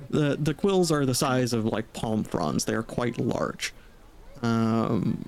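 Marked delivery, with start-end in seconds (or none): 0.1-3.7 narrator voice. A narrator's reading. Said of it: "I should switch to narrator voice for this".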